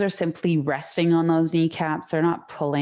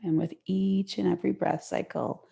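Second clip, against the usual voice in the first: gentle, unhurried yoga guidance with long pauses; guided relaxation. Real, not acted. Yoga teacher settling students into the mat, guided relaxation.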